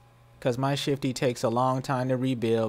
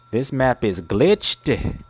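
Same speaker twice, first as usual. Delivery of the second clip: slow and emphatic; much slower than usual. Real, not acted. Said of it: "slow emphatic repeat".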